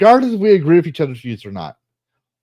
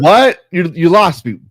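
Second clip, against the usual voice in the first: mock confusion; 3 semitones higher, 6 dB louder than usual. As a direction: play it lost and baffled. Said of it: "I'm like".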